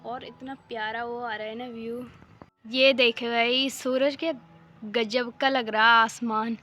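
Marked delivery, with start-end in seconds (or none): 2.6-6.6 louder, slow, thrilled at the view; excited about the sky. Real, not acted. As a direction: call out the sky, amazed and loud. Showing the sky on camera. (उत्साह से, ज़ोर से और धीरे)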